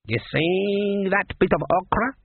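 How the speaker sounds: high, slow voodoo woman; psychic voodoo woman. A narrator's reading. Voodoo woman showing the cook her pot, psychic. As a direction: draw it out as a seer peering into the pot.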